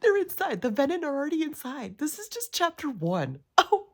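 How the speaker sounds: high, loud panicked squeal over a plot twist. Real, not acted. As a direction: shriek it in real alarm. Panicking over Venin reveal.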